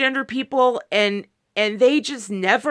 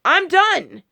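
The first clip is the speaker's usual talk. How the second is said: mock man's breakup line; 7 semitones higher, 4 dB louder, much slower than usual. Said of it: "if a man just goes".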